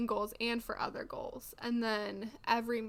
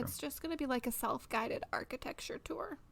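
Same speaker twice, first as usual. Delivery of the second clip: whispering; 2 semitones higher, 7 dB quieter than usual. Real, not acted. Whispered aside.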